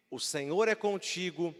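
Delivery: solemn, slow quote; slow quoted greeting. Acted. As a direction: lay the greeting out slowly and low.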